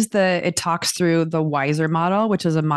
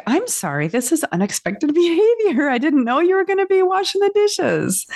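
mock apology; 11 semitones higher than usual. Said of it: "And I was like".

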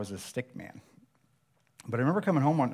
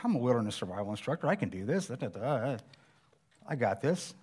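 mock boastful self. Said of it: "that was like me saying".

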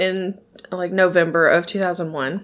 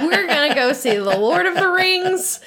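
retold refusal; 6 semitones higher than usual. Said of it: "And I said".

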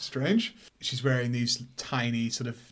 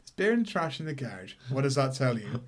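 deadpan. Retold or imitated. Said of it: "But, like, deadpan".

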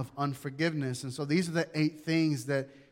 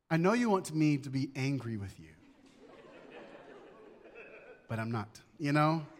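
calm wife; 3 semitones lower, 6 dB quieter than usual. Retold or imitated. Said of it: "she says to me like this".

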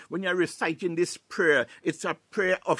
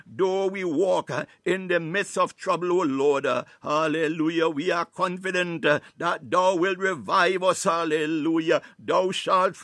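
raised, insistent Pentecostal prayer; fervent preaching prayer; 3 dB louder than usual. Real, not acted. Preacher praying the psalm over listeners, fervent and forceful. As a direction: pray it out forcefully in short surging phrases.

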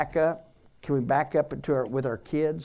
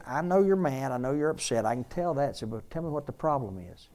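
calm, unraised tone. Retold or imitated. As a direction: acknowledge the anger in an even voice. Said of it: "He will keep that tone of voice".

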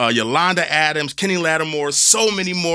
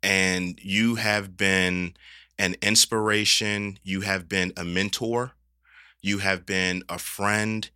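softer, lower, choked with emotion; holding back tears; 3 semitones lower, 5 dB quieter than usual. Real, not acted. Host tells his mentor what she means, holding back tears. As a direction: speak through the lump in your throat. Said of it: "I'm not gonna cry".

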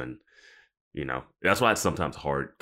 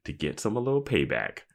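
slow, gloating lilt rising high at the end; mock passive-aggressive; 3 semitones higher than usual. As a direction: savour the payback, drawing it out. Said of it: "like, passive aggressive".

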